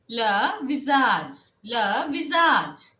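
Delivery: Le visage said slowly and clearly, le visage; slow model pronunciation. Shown as a demonstration. Teacher modeling le visage slowly for the class. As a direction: spell out le visage slowly for learners to copy. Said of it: "what we will say?".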